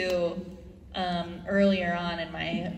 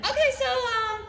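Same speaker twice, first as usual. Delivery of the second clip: casual producer; 14 semitones higher than usual. Retold or imitated. Producers springing a request on her.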